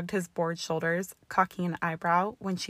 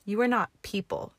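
loud, hard angry bark; 3 semitones higher, 4 dB louder than usual. Acted. Hermione snapping at Draco across the counter, angry bark. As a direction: bite the words out at him. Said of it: "she barked".

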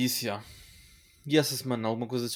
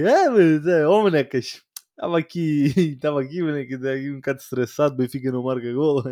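imitating David; 3 dB louder than usual. S1 imitating David excusing himself to his mother: lightly voiced.

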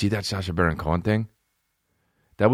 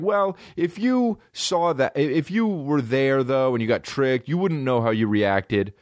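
whiny mock; 6 semitones higher than usual. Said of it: "a lot of people are like".

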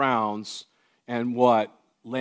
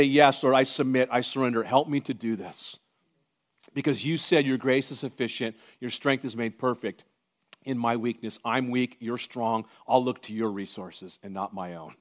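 humble prayer; 4 dB quieter than usual. Retold or imitated. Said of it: "my job is to say".

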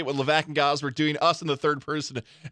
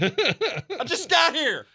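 mock fan voice; 9 semitones higher, much slower than usual. High slow joking voice.

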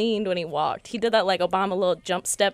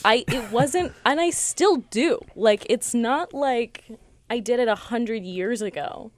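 laughing; 4 semitones higher, slower than usual. Real, not acted. Laughing while defending herself.

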